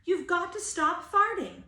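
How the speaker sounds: put-on urgent child voice. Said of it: "said Billy".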